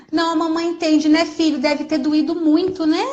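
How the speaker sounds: put-on gentle, validating mother to her child; empathetic mom. Mother comforting her hurt child, tender and understanding. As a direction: soothe the child, really acknowledging the pain. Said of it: "A mamãe entende que você tá sofrendo".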